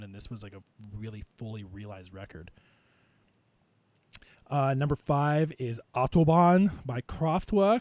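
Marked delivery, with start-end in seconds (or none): 4.5-7.8 put-on slow, heavy German accent. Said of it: "You have to say it in a German accent".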